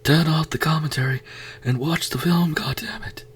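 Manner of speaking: high, hissed whisper of the same order; urgent whisper. Shown as a demonstration. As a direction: whisper it like a secret command. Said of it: "whispered repeat of order".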